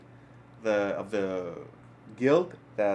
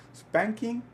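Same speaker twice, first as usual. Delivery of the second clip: blurted out high through a laugh; 12 semitones higher, 5 dB louder than usual. Real, not acted. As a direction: laugh the word out in embarrassment. Laughs while saying it.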